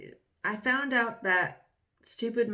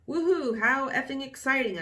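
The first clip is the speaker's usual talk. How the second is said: mock cheer, pitched higher and louder; sarcastic teen diary cheer; 5 semitones higher, 3 dB louder than usual. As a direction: fake excitement dripping with sarcasm. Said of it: "I was being sarcastic".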